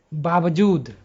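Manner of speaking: बावजूद said with force on the whole word; emphatic, firmly delivered बावजूद; whole-word stress. Shown as a demonstration. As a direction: put weight on all of बावजूद, falling at the end. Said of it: "ऐसा शब्द ही है जिस पर जोर देना पड़ता है".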